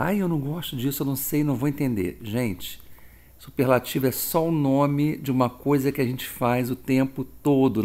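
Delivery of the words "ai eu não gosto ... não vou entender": quick, fretful whine of a scared student; mock panic. Teacher imitating a frightened student, hurried and whiny. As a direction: rush it like a nervous learner who gives up. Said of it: "fica assim, apavorada".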